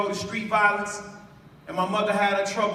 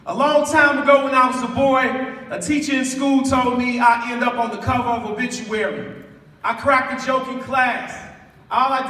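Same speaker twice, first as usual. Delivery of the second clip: louder, preaching to the crowd; rising loud preaching; 5 dB louder than usual. Real, not acted. Poet preaching his boyhood story to the crowd, loud. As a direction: build the story with full force.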